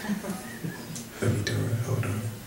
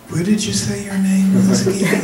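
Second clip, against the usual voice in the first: high, laughing mock caller voice; hammed-up high caller voice; nosy caller; 12 semitones higher than usual. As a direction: squeak out a nosy caller's question. Caller voiced in phone story.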